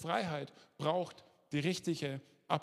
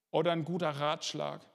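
guter Ratschlag with the weight landing hard on Schlag; stress on Schlag. Shown as a demonstration. Preacher warning his congregation, punching Schlag in Ratschlag. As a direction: lean on the second half of Ratschlag, Schlag. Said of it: "mit Betonung auf Schlag".

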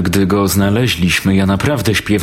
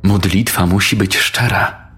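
taunting villainess. Acted. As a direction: purr it with cruel amusement. Lucifer's daughter taunts.

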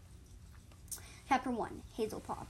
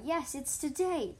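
amused reply; 5 semitones higher, 6 dB louder, slower than usual. A narrator's reading. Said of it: "Dovepaw laughed".

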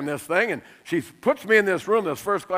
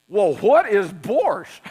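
laughing question; much slower than usual. Retold or imitated. Baffled passenger asking.

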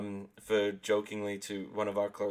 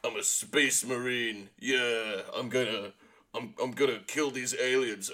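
macho space marine; 2 semitones higher than usual. Retold or imitated. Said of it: "that's when you get, like".

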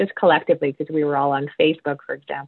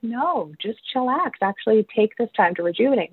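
higher-pitched imitation of easygoing people; lightly put-on higher voice; mock laid-back reply; 6 semitones higher than usual. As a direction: counter the nagging with an easy reply. Mimics the opposing side replying.

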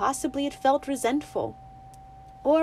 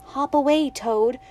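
louder call, a bit higher; calling after; 4 semitones higher, 5 dB louder than usual. Acted. Winnie calling after the hopping toad, louder. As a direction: send it off with a call. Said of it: "she called after it".

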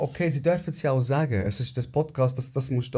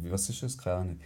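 low, quiet befuddled imitation; Michael; 5 semitones lower, 7 dB quieter than usual. Joking about not knowing the term, low clueless impression. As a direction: drop low and soft, playing clueless. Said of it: "Jetzt mach ich wieder Michael".

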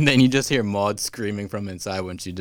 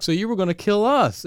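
raised mock question; 11 semitones higher than usual. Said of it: "They're like".

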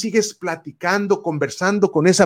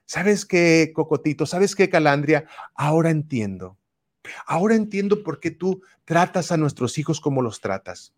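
compassionate; 2 semitones lower than usual. Shown as a demonstration. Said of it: "ahora sí puedes ser compasivo y decirle".

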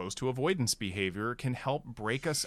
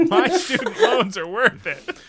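laughing; 11 semitones higher, 8 dB louder than usual. Real, not acted. Laughing after the joke.

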